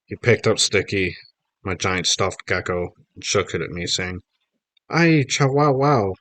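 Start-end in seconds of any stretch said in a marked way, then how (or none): 4.9-6.2 high, slow mock-Mexican cry; hammed-up Mexican accent. A narrator's reading. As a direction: stretch it out in a bad Mexican accent. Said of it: "in the worst Mexican accent ever".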